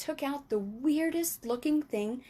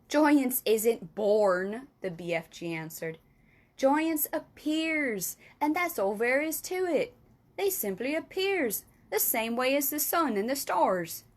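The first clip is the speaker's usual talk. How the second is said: giant voice; 3 dB louder than usual. Acted. Giant explains slowly.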